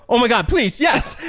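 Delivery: relieved plea. Retold or imitated. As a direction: beg with relief. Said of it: "I go".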